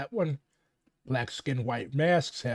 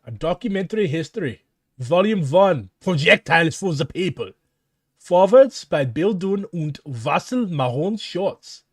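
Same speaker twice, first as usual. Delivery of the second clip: put-on German accent; 3 dB louder than usual. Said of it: "this ridiculous German accent while reading".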